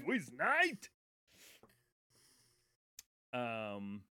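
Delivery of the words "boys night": mock boys' night. Echoing boys' night mockingly.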